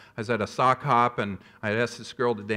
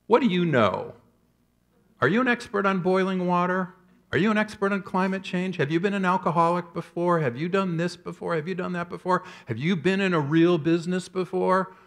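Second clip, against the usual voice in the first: defensive frog voice; 4 semitones higher than usual. Acted. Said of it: "the frog would probably be thinking this".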